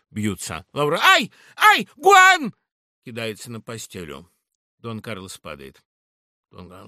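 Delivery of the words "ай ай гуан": very high, loud cries; Laura screams during the sword fight; frightened screams. Acted. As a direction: scream in fear.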